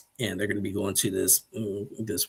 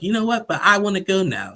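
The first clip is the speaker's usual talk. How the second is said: mock huffy snap; 11 semitones higher, 7 dB louder than usual. Shekinah snapping before slamming door.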